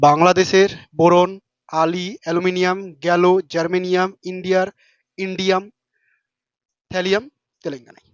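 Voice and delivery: slow, deliberate memory-trick chant; teacher reciting a mnemonic slowly; slow mnemonic recital. Shown as a demonstration. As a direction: spell it out slowly so they remember. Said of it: "মনে রাখার trick".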